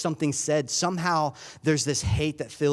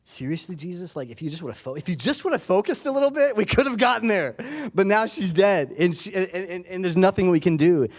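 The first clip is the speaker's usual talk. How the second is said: much higher, loud, accusing cry at Jesus; a desperate father blaming him, voice straining high; frustrated grieving father; 6 semitones higher, 4 dB louder than usual. Retold or imitated. All the emotions that Jairus is feeling.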